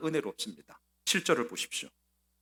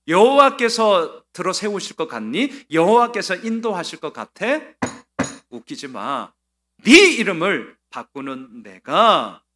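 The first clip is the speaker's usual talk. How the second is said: scornful king, louder on the threats; sneering taunt; 7 dB louder than usual. Retold or imitated. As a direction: taunt him from above, mocking his faith. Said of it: "속내가 이런 겁니다". (조롱하며 으르는 왕의 목소리)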